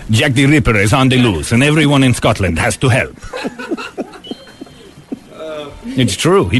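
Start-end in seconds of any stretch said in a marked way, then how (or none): 0.1-3.1 put-on Yul Brynner accent. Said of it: "director of the Scotland Yard".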